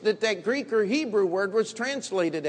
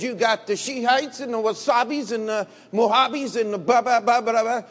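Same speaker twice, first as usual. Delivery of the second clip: dismissive listing; 4 semitones higher, 4 dB louder than usual. Retold or imitated. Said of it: "I said".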